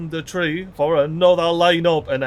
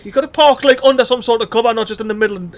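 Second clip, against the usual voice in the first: higher and louder, fast on the second line; exasperated rant; 9 semitones higher, 4 dB louder, much faster than usual. Real, not acted. Gamer to viewers about a careless pilot, exasperated raised voice. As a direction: pitch up and raise the voice in disbelief.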